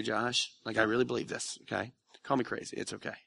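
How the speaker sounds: gentle reassurance. Retold or imitated. Voicing God's gentle reply.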